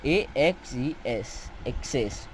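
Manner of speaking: letters first, then the word "एक्सेस"; spelling it out. Shown as a demonstration. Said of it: "spelling है वो अलग है".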